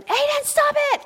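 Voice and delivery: high, loud scolding yell at her brother; high-pitched retold yell of a girl talking in her sleep; angry yell. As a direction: snap at him like a fed-up little sister. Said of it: "she'll yell at him".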